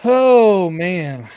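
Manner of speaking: drawn-out sigh of exclamation. Real, not acted. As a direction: let the oh sink into man. Theatrical weary opener after sound check.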